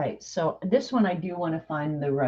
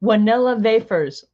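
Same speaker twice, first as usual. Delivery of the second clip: slightly higher mock German accent; thick German accent; 5 semitones higher, 4 dB louder than usual. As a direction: imitate the German pronunciation of "Wanella wafers". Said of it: "thick German accent".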